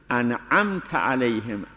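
slow, انعمت and علیهم kept apart; pause after an'amta. Shown as a demonstration. Teacher shows the pause in انعمت علیهم for students.

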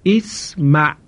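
اسمع read as isma with a clear short i; Arabic model word. Shown as a demonstration. Teacher gives the final reading to students, careful demonstration. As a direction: pronounce اسمع carefully, opening i.

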